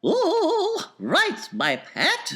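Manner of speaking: mild soothing mother; calm the spoilt child gently; mother lightly soothing her daughter. Acted. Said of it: "Missus Salt said soothingly".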